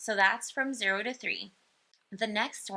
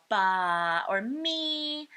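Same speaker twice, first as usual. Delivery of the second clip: put-on baby babble; much slower than usual. Shown as a demonstration. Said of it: "speech-like babbling sounds like pa".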